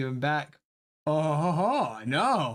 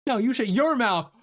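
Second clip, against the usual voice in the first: angry shout; 8 semitones higher, 5 dB louder than usual. Acted. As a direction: yell it back in their face. Phoebe snaps back in argument.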